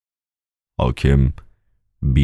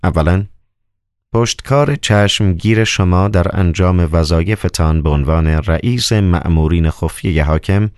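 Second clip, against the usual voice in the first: a lightly voiced governor giving orders, a touch raised; a hint of a commanding Roman procurator; stern governor; 3 semitones higher than usual. Procurator orders his secret agent to bury the bodies, lightly commanding.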